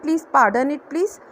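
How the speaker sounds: each word drawn out slowly for learners; slow demo phrase. Shown as a demonstration. Teacher slowly models the polite request for students, drawn out. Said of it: "तो हम उनसे बोलते हैं".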